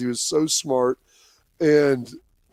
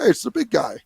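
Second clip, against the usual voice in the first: Nick impression; 8 semitones higher than usual. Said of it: "It's probably a terrible impersonation".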